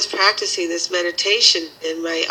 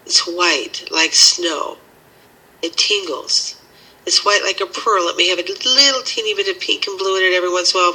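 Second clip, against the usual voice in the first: guided meditation. Acted.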